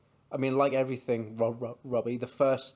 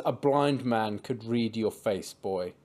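quoting Elias; 3 semitones lower, slower than usual. Retold or imitated. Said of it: "he says".

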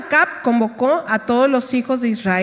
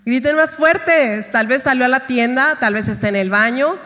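mocking taunt. Elijah taunting the prophets of Baal, mock jeering. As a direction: poke fun dryly, like dark humor. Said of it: "él se empieza a burlar y les dice".

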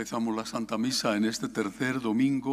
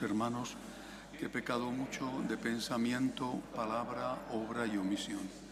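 softer, measured recitation in short phrases; penitential prayer; 6 dB quieter than usual. Real, not acted. Priest confessing sins with the congregation at Mass, subdued prayer. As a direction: recite it quietly, as a shared confession.

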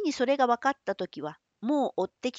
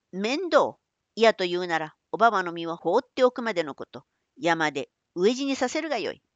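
defiant threat; 5 dB louder than usual. Acted. Hero defies the samurai.

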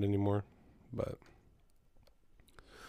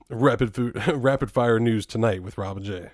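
newscaster voice; 5 dB louder than usual. Shown as a demonstration. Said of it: "the newscaster voice".

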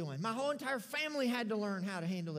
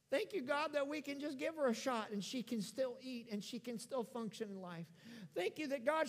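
prayer; 2 semitones higher, 4 dB quieter than usual. Retold or imitated. Prayer of thanks after seeing sick kids.

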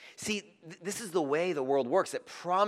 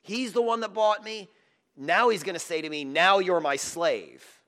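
imagined Gomer; 5 semitones higher, 6 dB louder than usual. Acted. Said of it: "maybe Gomer thought".

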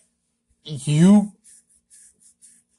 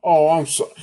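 ordinary talk

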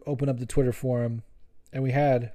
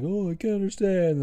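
playing the heel; 6 semitones higher than usual. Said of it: "trying to play the heel".

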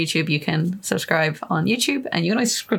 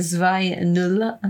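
put-on German accent. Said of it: "look at my lovely German accent".

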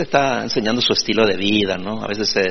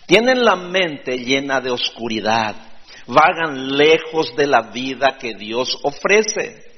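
scripture reading; 2 semitones higher than usual. Acted. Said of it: "Dice el apóstol Pablo".

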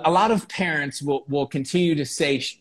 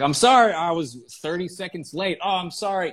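imitating a compulsive apologizer, higher pitched; over-apologetic; 4 semitones higher than usual. Host imitating people who apologize for everything, mock over-apologetic.

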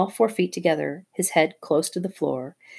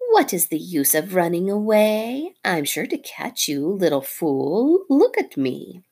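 mock the fleeing bird; taunting snake; 2 semitones higher than usual. Nagina taunting Darzee's wife, lightly voiced snake.

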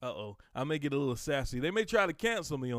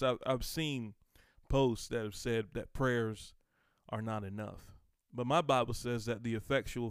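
ordinary delivery

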